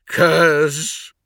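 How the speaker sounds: high, loud anguished call; sobbed cry. A narrator's reading. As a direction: cry the name out as if weeping. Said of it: "I sobbed".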